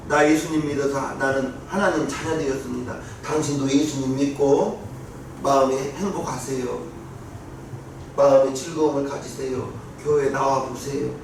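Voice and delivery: low, personal invitation; gentle witnessing. Shown as a demonstration. Believer inviting an unbeliever to church, gentle appeal.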